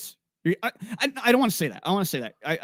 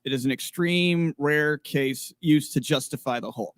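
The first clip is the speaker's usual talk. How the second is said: reading comment aloud; 3 semitones lower than usual. Real, not acted. Host reads a viewer's comment to listeners, measured read-aloud. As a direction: read it out deliberately, word by word.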